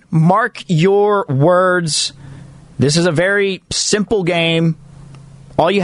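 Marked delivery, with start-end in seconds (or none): 0.1-2.1 segment announcer. Acted.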